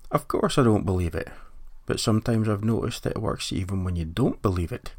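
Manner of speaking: a light hint of a Danish accent; lightly imitating a Danish scientist's accent. Host quoting Niels Bohr with a faint Danish accent. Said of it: "in a Danish accent".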